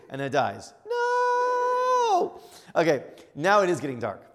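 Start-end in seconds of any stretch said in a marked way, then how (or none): 0.9-2.4 high, drawn-out cry; hammed-up long wailing "no"; mock wail of despair. Family watching the engine die again, hammed-up high wail.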